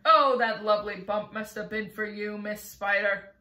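loud, gloating delight; gleeful centipede. Acted. Centipede gloats to Miss Spider, loud and gleeful. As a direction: relish the bump, loud and gleeful.

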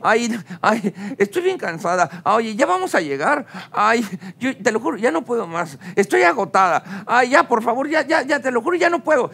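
imitación leve de suegra agotada que se queja; suegra quejándose. Retold or imitated. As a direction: queja fingida que va creciendo y subiendo de tono. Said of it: "mi suegra se quejaba". (quejumbroso, como suegra cansada)

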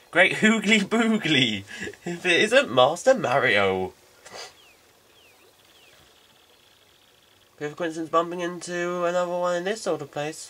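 a hint of a jolly old captain, measured and grand; old gentleman character. Player reading the captain's dialogue to Mario, lightly hammed old gentleman.

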